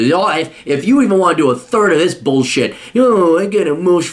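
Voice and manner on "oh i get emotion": whimpering imitation, slightly raised; mock whiner. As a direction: mimic the complaint in a whine. Mocks whiner again.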